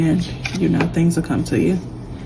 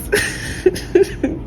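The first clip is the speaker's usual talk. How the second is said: teary laugh; 12 semitones higher, 4 dB quieter than usual. Real, not acted. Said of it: "I'm really crying, guys".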